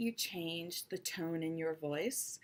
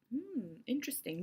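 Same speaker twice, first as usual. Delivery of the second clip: higher, musing hum of interest; interested listener; 4 semitones higher, 4 dB quieter than usual. Acted. Speaker playing a nodding audience member, interested. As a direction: hum thoughtfully as if intrigued. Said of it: "focus on the people who are".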